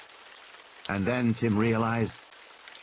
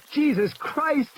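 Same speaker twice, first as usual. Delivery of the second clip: much higher, frantic curse; panicked oath; slower than usual. Acted. Ed Regis swears again as the T. rex roars. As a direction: cry out in terror. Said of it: "he said again".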